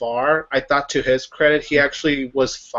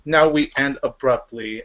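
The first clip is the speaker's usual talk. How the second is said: mock excitement; 3 semitones higher than usual.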